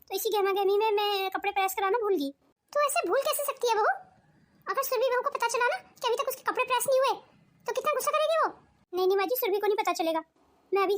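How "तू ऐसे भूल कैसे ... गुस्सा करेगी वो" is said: scolding. Acted. Mother-in-law to daughter-in-law about unpressed clothes, scolding. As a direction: scold her for forgetting.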